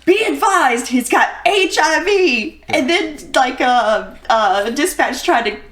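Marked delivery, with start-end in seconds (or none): 0.0-2.6 high-pitched hollered radio call; imitated hollering. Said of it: "started hollering".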